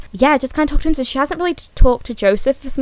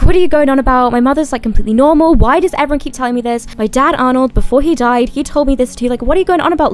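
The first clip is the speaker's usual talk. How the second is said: acted, louder, incredulous protest; indignant; 3 semitones higher, 4 dB louder than usual. Vio rejecting claims about her mother, indignant. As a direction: push back as if it's nonsense. Acts out Vio disputing Lily's news.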